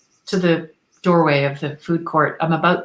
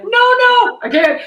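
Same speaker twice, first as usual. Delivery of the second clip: high, loud timid squeak of refusal; little Canadian me; 7 dB louder, slower than usual. Retold or imitated. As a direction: squeal it like a shy inner child. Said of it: "my little Canadian me went".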